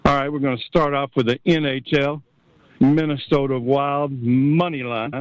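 slow, lightly imitated tipster read; a hint of a measured sports picker; X-Man voice. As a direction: draw out each pick deliberately. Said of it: "try to get my X-Man voice".

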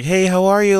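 put-on high thin girly voice; man doing a woman's voice. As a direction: put on a high sweet girl voice. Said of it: "Still trying to put on a thin girl voice".

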